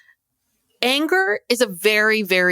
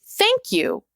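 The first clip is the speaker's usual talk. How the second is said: much higher, delighted praise; cheering her on; 8 semitones higher than usual. Retold or imitated. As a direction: applaud Mary with a high-pitched cheer. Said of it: "I'm like".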